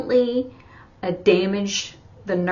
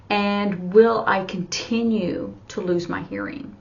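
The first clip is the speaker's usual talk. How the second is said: tearful quote; 2 semitones higher than usual. Retold or imitated. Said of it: "I just started to cry".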